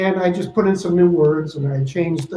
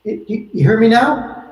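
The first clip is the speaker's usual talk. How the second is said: heavy reverb; 4 semitones higher than usual. Real, not acted. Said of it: "you sound like the voice of, from on high".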